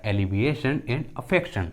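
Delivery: "alleviation" and "affection" ending in -shan; sh sound for T. Shown as a demonstration. Teacher showing T as sh in "alleviation and affection". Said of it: "टी का आवाज़ श आ रहा है".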